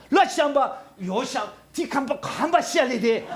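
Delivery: high, slow, laughing tongues; tongues demo. Shown as a demonstration. Pastor demonstrating interpreted tongues to the church. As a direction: speak tongues that now get interpreted. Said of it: "그때 가면은".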